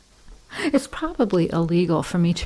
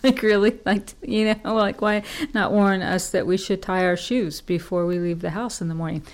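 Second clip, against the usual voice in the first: snarky mockery. Real, not acted. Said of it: "in kind of a snarky, mean way".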